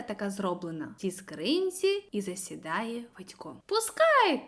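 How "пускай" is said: a mild call to let the kite go; lightly voiced boy calling out; mock shout across the field. A narrator's reading. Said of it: "кричить той".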